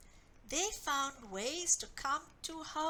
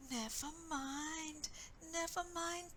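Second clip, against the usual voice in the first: soothing; 4 semitones higher than usual. Acted. Mother comforting sobbing child.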